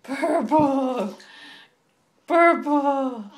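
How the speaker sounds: loud, drawn-out modelling of Purple; teaching a word. Shown as a demonstration. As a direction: say Purple clearly for the child to copy. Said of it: "Say purple".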